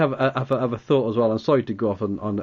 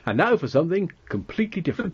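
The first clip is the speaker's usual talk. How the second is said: announcer voice; 6 semitones higher, faster than usual. Retold or imitated. Monty Python announcer quote.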